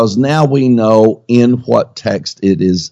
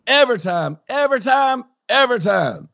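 high, soft preacher refrain; 14 semitones higher, 7 dB quieter, faster than usual. Pretend. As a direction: lilt it like a TV evangelist.

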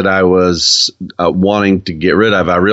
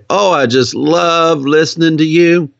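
high, lightly voiced swooning fan; gushing admirer; 8 semitones higher than usual. Imitating people charmed by her accent, gushing. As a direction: coo it like a charmed listener. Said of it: "stop and smile and say".

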